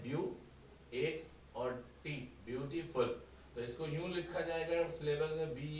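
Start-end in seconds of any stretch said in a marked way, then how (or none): 0.0-3.0 ब्यूटीफुल broken into ब्यू, टी and फुल; syllable by syllable. Shown as a demonstration. Teacher showing how to read ब्यूटीफुल, syllable by syllable. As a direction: sound out ब्यू, pause, then टी, then the whole word. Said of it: "तो हम इसे यूं पढ़ते हैं".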